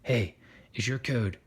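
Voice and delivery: low patrolling-guard voice; killer T cell. Acted. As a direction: question a passer-by in a low voice. Killer T cell questions third cell.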